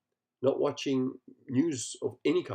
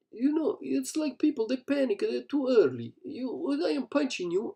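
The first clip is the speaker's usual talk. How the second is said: retold Systema instructor; 11 semitones higher than usual. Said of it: "He was saying".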